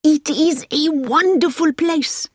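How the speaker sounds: slow, high-pitched rapture in a French driver's voice; enthusiastic. A narrator's reading. Driver praises the hospital to Hilary, enthusiastic. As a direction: marvel at it, drawing the words out. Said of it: "said the driver again".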